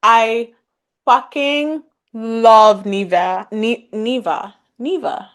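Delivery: slow, emphatic fangirl declaration; gushing adoration. Real, not acted. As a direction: draw out each word of devotion. Gushing over favourite book characters.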